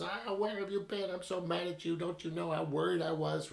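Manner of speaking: high, shrill scolding mother; shrill mom voice. Retold or imitated. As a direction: scold like a frantic, relieved mom. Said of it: "in her shrill voice".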